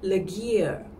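leger said as English ledger; wrong reading, leger like ledger; mispronounced leger. Shown as a demonstration. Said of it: "most mispronounced sounds".

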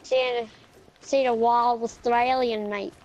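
hammed-up broad Australian accent; put-on Aussie accent; wild Australian accent. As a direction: ham up an Australian accent, documentary-style. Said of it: "you can't even do your own accent".

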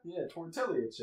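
"tortilla" with an extra ee-a ending; imitated mispronunciation. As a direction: sound out the Ls in "tortilla". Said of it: "there's extra I's in there".

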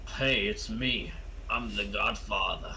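slow, put-on mob boss voice; the Godfather. The most serious movie saying its title, Godfather voice. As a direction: draw it out with mock gravity. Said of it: "The most serious".

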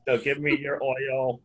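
stiff robot demand. Pretend. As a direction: command it like a machine. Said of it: "Now you sound like a robot".

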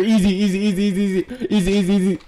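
taunting shout. Real, not acted. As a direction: yell the taunt out, then screech. Taunting then yelling in fight.

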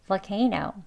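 "Volcano" short, as "vuh-CAY-no"; conversational pronunciation. Shown as a demonstration. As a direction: weaken the first syllable of "Volcano". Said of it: "대화 발음이죠".

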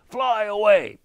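high, loud piping voice. A narrator's reading. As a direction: pipe it up sharply. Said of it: "piped Heron".

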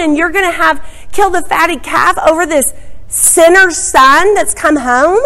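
a resentful brother's outburst; indignant older son. Retold or imitated. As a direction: complain like you've been cheated. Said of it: "He is mad".

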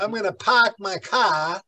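light Boston accent with the r's dropped. Shown as a demonstration. Lecturer showing students how Boston sounds, Boston accent. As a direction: say it like a Bostonian, "pahk my cah". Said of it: "You can tell somebody from Boston".

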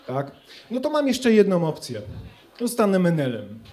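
ordinary talk

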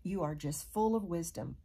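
mildly sarcastic mock praise. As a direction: lightly imitate a sarcastic compliment. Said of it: "he's being sarcastic".

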